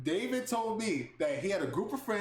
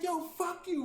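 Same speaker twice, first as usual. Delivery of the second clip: mock tough guy; 11 semitones higher than usual. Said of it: "I'm gonna act hard".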